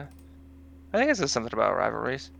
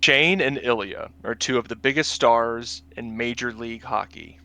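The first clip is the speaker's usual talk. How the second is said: narrator voice; 3 dB louder than usual. Pretend. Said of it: "get your narrator voice".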